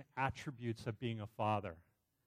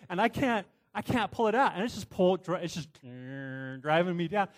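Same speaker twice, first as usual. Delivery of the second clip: urgent retelling; 5 semitones higher, 8 dB louder than usual. Retold or imitated. Retelling being pulled into machine.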